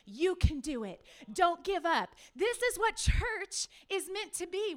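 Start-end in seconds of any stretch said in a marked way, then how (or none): 0.0-2.2 encouraging coach. Retold or imitated. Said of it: "no one to say".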